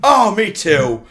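loud, hearty dwarf rambling; jolly dwarf. Acted. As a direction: play the cheery old dwarf chatting. GM holds dwarf character.

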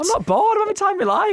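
high playful protest; mock protest. Real, not acted. Protesting he is not bored.

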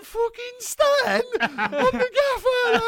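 high, slow mock Australian drawl. Australian player mocking the gaffer, high mock Aussie. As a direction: ham up the Aussie youngster. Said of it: "he's like".

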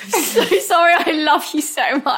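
high, slowed, laughing apology; gushing apology. Retold or imitated. Drunk girlfriend gushing sorry to boyfriend, high and giggly. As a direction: gush it out sweetly, high. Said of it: "then I was like".

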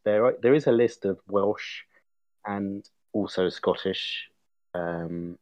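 normal talking voice

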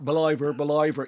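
mock Southside Dublin accent; demonstrating a posh-side Dublin accent. Shown as a demonstration. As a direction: say Believer with an oy vowel, Southside Dublin style. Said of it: "you can't say believer in a Southside Dublin accent".

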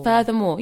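Furthermore started with a crisp F; clear F sound. Shown as a demonstration. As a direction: Furthermore said cleanly with F. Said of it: "My one sounds better than your one".

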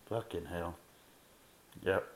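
ordinary talk

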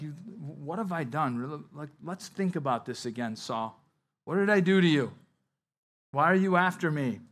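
hurt appeal, why are you after me; pleading. Retold or imitated. David pleading with Saul, rising plea.

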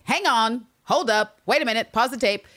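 high, loud acted objection; indignant interjection. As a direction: cut in sharply, voicing someone's outraged disbelief. Retelling Lister's indignant interruption.

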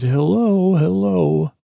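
high-pitched, questioning hello; tentative high call into the wreck. Acted. Calling out to the crashed stranger.

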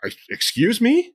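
high, affronted question; mock-offended, rising high; indignant disbelief. Acted indignant reaction to menopause remark.

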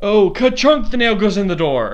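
loud, high, playful hammer noise; silly sound effect. Pretend. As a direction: yell out the clunk like a cartoon. Sound effect nailing theses.

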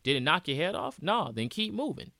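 dismissive bro voice, pitch rising line by line; mock macho bro. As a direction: brush off the pain like a pushy gym buddy. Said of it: "society's like".

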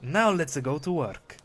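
slow, lightly put-on Eastern European accent; carpenter's foreign accent. Carpenter reassuring himself, slow Eastern European accent. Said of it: "laughing and scratching his wig".

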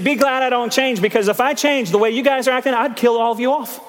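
hammed-up divine warning; God's voice. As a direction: play God half-joking, scolding the crowd. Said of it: "This is what he's saying right there".

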